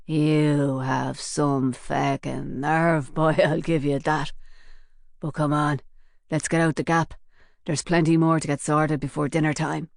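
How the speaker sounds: cool, amused thug; menacing gunman. Acted. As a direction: savour the threat with a chuckle. Shotgun man, menacing Cork gangster.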